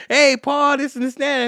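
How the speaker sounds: loud, high hype greeting to the camera; excited shout-out. Retold or imitated. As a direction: hype him up like a video shout-out. Video shout-out to brother.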